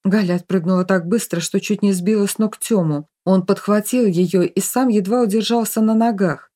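ordinary delivery

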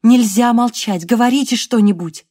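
urgent command. Acted. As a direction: press him hard to keep talking. She urges wounded man to speak. (настойчиво, громко и медленно)

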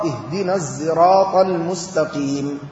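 الصراط said as zirat, sad blended toward z; الصراط بالإشمام قريبا من الزاي; zay-like sad. Shown as a demonstration. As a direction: turn the s of الصراط into a voiced z sound. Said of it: "بما يشبه الزال التي ينطقها العامة".

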